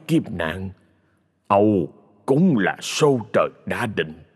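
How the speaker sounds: put-on slow, heavy lament of a mild old master; lightly voiced sorcerer sighing over fate; resigned old sorcerer. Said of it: "lắc đầu thở dài".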